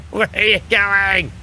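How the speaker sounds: real bewildered cry at a boat going the wrong way; exasperated. Real, not acted. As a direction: call out to a stray boat in disbelief.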